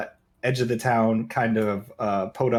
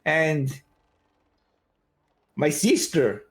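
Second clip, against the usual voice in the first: high, slow call across the room; calling the bartender; 12 semitones higher, slower than usual. Acted. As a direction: flag down the barkeep and order. NPC calls over to the bartender.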